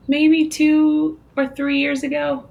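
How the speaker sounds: high, drawn-out, unsure estimate; real tentative high-pitched musing; hesitant guess. Real, not acted. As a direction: stretch it out high as you guess. Unsure guess after thinking.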